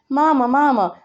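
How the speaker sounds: playful mock amazement; laughing wow; amused exclamation.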